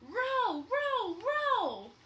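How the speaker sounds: loud, high barked commands; captain driving the rowers; rowing orders. Acted. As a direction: bark it in rhythm.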